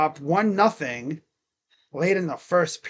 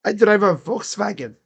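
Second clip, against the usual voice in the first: German accent; 4 semitones higher, 5 dB louder than usual. Shown as a demonstration. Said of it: "Little German accent".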